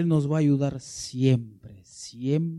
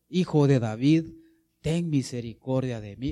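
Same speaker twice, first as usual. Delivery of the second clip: firm, louder call on the first words; louder imitated cry; 3 semitones lower, 4 dB louder than usual. Blind man cries louder to Jesus, imitated. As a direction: imitate a beggar calling out with more force. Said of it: "Daba mayores voces".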